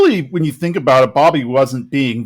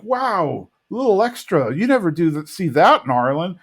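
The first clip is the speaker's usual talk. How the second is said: higher-pitched wowed kid, mildly acted; impressed; 4 semitones higher than usual. Bobby wowed by the blizzard flip, impressed. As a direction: imitate a boy's amazed wow.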